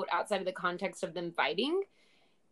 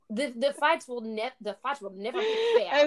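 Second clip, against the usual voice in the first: mock Israeli accent, higher and quicker; hammed-up Israeli accent on the line; bad Israeli accent; 5 semitones higher, 4 dB louder than usual. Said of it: "all of them have to do this weird".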